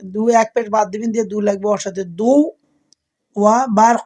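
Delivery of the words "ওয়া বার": বার said firmly with a stopped ending; pronunciation demo. Shown as a demonstration. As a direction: stop cleanly on বার. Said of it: "এভাবে বার". (বার সাকিন ধরে বলা)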